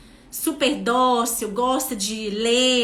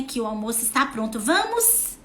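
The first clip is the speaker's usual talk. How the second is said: gentle invitation. Shown as a demonstration. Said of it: "vai lá onde que ela tá e fala assim".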